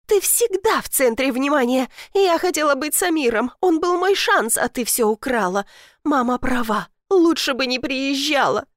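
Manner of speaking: high, trembling furious accusation; voice shaking with rage. Acted. Younger sister accuses Elif, trembling with rage. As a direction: spit it out, barely holding back. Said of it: "Её голос дрожал от ярости".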